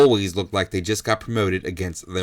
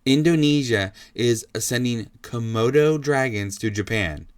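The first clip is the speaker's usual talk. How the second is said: slow and deliberate. Shown as a demonstration. Host restating the story so the brain keeps up, slow and deliberate. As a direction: spell it out patiently, softening at the close. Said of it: "Let me say this slowly".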